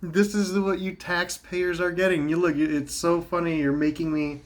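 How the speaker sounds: high, laughing to tears. Real, not acted. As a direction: laugh while you talk. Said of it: "I'm laughing".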